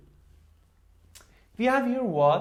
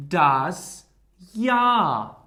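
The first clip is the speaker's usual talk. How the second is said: Jahr said yah with the voice rising, louder; rising intonation; 5 dB louder than usual. Shown as a demonstration. Teacher showing the intonation of das Jahr. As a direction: lift the pitch on Jahr. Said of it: "increasing intonation".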